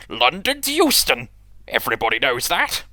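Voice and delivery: loud scornful retort; indignant engine. Acted. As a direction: insist it indignantly. Engine argues in story.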